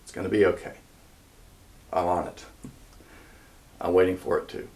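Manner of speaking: low, softened voice with long pauses; quiet reassurance. Acted. King answering hearts crying out in the silence, gently reassuring. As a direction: reassure gently, one short phrase at a time. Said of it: "the king says to you".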